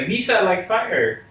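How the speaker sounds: slow, high goofy alien voice; Jar Jar Binks. Retold or imitated. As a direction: drag it out like a clumsy cartoon alien. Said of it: "If you think someone's like".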